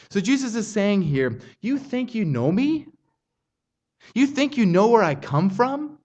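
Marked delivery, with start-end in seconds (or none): 1.6-6.0 challenging question. Retold or imitated. Preacher voicing Jesus's challenge.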